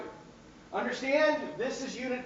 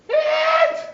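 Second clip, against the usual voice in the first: a shout pitched high and much louder; loud call-out; 10 dB louder than usual. Real, not acted. Teacher flagging exam material to students, a high loud shout. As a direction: sing out the cue like an alarm. Reading hint off the slide.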